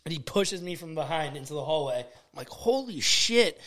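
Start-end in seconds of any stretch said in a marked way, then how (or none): 2.5-3.6 shocked. Retold or imitated. Pushed into the hallway.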